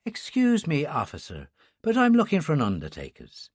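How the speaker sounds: put-on gentle, soft-spoken Irish accent; a quiet Irish nun asking the way. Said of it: "in a soft Irish accent".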